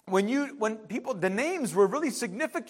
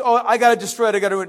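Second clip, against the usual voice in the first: put-on upset little girl; 7 dB louder, much faster than usual. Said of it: "she says".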